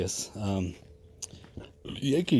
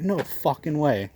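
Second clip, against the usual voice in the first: stunned disbelief; 6 semitones higher, 4 dB louder, slower than usual. Retold or imitated. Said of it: "I'm like".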